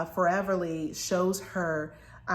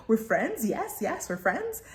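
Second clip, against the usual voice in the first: spider creature voice; 2 semitones higher than usual. Retold or imitated. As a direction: play a creepy eager spider. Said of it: "that's how it reads in the book".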